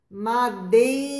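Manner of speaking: Madeira slowly, with a gentle tapped r; soft R. Shown as a demonstration. Teacher modelling the weak R for the class. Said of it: "tem um som fraquinho".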